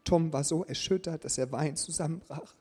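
lebhaft erzählte Geschichte; erzähl es wie eine Vorlesegeschichte; Geschichte vorlesen. A narrator's reading. Reads story to congregation. (erzählende Vorlesestimme)

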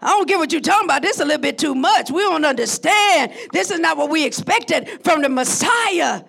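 hint of a baffled crowd; lightly voiced disciples, complaining. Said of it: "They said".

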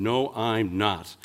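put-on slow, firm child's refusal; lightly acted stubborn refusal, word by word; very determined. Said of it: "very determined".

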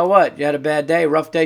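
loud, mocking sarcastic question. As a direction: needle her with fake concern. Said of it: "I kinda tilted my head. I go".

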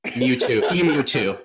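"Mewtwo" then "Emu too" said almost the same, punning; Mewtwo pun. Shown as a demonstration. The speaker punning emu into Pokemon, laughing. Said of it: "you brought it back to the Pokemon jokes".

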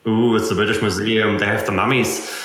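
lightly hammed-up old-school reverence; mock awe. Developer sending up a famous old customer's dusty name, mock awe. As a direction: put on a touch of mock wonder at a dusty institution. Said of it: "old school, dusty name".

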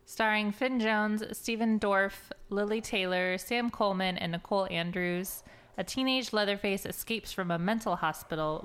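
measured, even read-aloud voice; release news read. Real, not acted. Co-host reading this week's horror releases, announcer-style read. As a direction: read the cast and synopsis out like an announcer. Reads out release cast and synopsis.

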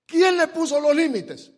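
God questioning Job. Acted. Preacher voices God to Job, loud.

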